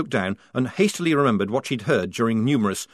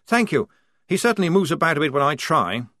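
Blouse's voice; 6 semitones higher, 4 dB louder than usual. Acted.

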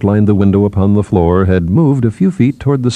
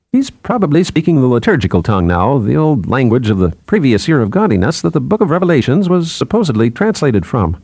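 a touch higher, lively explaining voice; lightly voiced psychologist; 5 semitones higher than usual. Psychologist explains the old liturgical tongue to colleagues, lightly animated. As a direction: explain it with lifted, lilting pitch.

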